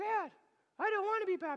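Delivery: put-on plain, very high child voice. A father imagines his two kids objecting to being baptized, imitating kids protesting. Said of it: "They're like".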